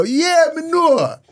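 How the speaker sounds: high, slow, put-on Jamaican accent; an eager British kid faking a Jamaican accent, drawn out high; excited fake Jamaican. British kid trying Jamaican on his parents, an excited put-on accent. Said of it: "get a bit excited and go".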